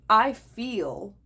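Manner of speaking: "feel" stressed over "am". Shown as a demonstration. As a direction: lean on the word "feel". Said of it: "emphasis on feel".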